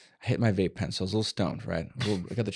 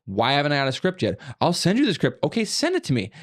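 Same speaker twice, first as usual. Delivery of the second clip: loud sharp voice. Retold or imitated. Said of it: "Why are you yelling at me?".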